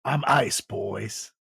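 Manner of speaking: cocky "it's cool" bro voice; smug, casual brush-off; quoted cop-bro line. Retold or imitated. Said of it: "He said".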